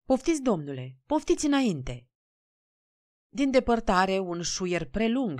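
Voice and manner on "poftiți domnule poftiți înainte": obliging, smiling invitation lifting higher; fawning politeness. A narrator's reading. Guard bowing to a well-dressed gentleman, fawning politeness. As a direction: usher a gentleman through obsequiously. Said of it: "se ploconi zâmbind".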